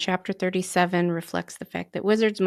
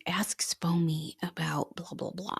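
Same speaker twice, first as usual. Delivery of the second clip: hushed imitation of people asking; mock whisper; 6 dB quieter than usual. Quoting people who ask Spomi things, in a hushed whisper. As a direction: whisper it like a pestering fan asking. People pestering for psychic answers.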